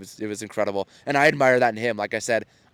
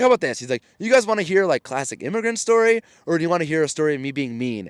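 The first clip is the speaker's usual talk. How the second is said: high, lively mock showman offering a choice; confident showman; 5 semitones higher, 3 dB louder than usual. Storyteller asking the audience which story, playful flamboyant mimicry. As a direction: tease the crowd with a grin. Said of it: "so confident".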